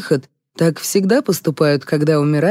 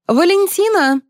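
high-pitched, commanding call; 4 dB louder than usual. A narrator's reading. Liza summoning the audience member, calling out. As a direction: call the name out to summon her. Liza calls the victim sharply.

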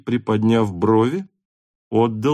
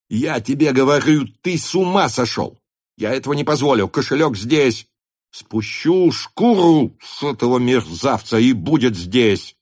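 raised, furious protest; angry shout; 4 semitones higher than usual. A narrator's reading. Denisov shouts at Rostov, furious. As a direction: shout him down. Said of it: "закричал он так, что жилы".

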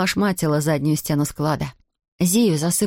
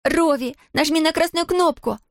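much higher, urgent shout; yelling; 11 semitones higher than usual. A narrator's reading. Girl yelling to the mentor to hit the button, shouting. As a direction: scream the order across the room. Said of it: "заорала она".

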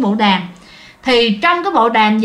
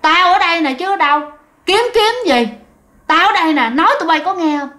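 taunting ghost voice; 4 semitones higher than usual. Retold or imitated. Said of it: "phát ra cái tiếng".

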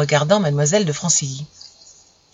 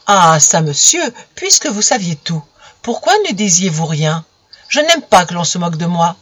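louder, affronted reproach; offended demand; 3 dB louder than usual. Acted. Camille reproaching Romain for mocking her, offended. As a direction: demand an answer, stung.

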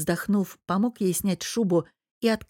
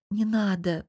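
conciliatory; 2 semitones higher than usual. Acted. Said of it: "примиряюще кивнула".

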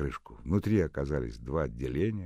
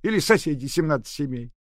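much higher and louder, scolding; grumbling old nurse; 13 semitones higher, 12 dB louder than usual. A narrator's reading. Old nurse doubting the new flat, scolding. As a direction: rant like a doubtful old nanny.

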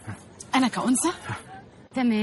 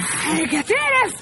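slow, loud, dragged-out disgust; 7 semitones higher, 6 dB louder, much slower than usual. Acted. Nani reacting to the smoker, slow loud disgust. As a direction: spit out the disgust word by word.

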